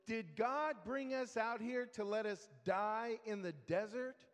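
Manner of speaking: hammed-up whiny demand; imitated whining. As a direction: mimic a grumbling crowd pestering its leader. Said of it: "they're whining to Moses".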